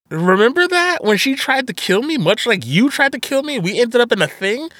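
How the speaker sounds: lightly acted incredulous outrage; indignant confrontation. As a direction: imitate someone throwing an accusation back. Voicing a wronged woman's confrontation.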